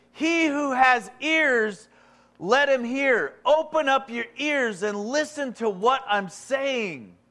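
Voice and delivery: loud, high, drawn-out proclamation; crying it out. Acted. Jesus calling the crowd to listen, crying out. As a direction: call it out slowly to command the crowd. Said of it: "He cried it out".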